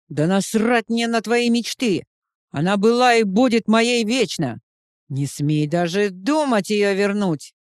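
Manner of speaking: loud jealous rant at the rival; angry shout. Acted. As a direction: snarl it at the rival, barely holding back. Ревнивая ссора соперников. (ревнивый злой крик на соперника)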